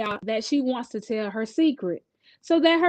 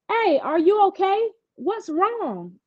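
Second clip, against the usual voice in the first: concerned friend; 8 semitones higher than usual. A narrator's reading. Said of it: "I asked Sunny again".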